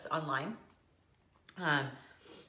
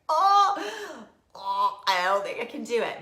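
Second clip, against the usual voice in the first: high, loud groaned "oh"; mock dismay; 4 semitones higher, 6 dB louder than usual. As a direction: recoil from that first bite. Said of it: "I was like".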